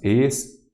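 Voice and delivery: "espírito" broken into es, pí, ri-to; syllable by syllable. Shown as a demonstration. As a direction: split "espírito" into syllables with clear gaps. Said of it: "a antepenúltima sílaba é a tônica".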